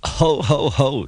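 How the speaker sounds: light spoken ho ho; a mild amused chuckle; chuckling. A narrator's reading. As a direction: chuckle at his trouble. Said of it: "chuckled Duck".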